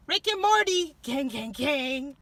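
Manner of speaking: loud, hyped announcement; excited reveal. Real, not acted. Vlogger showing off her new steering wheel cover, hyped. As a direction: shout it like a big reveal.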